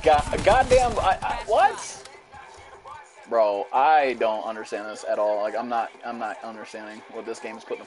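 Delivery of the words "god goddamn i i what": high, loud, stretched-out yelling; incredulous screaming. Real, not acted. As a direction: stammer and shriek in disbelief. Screams in disbelief at game.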